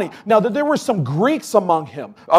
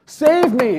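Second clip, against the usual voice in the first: mock shout for help; 6 semitones higher than usual. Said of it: "what are you shouting out".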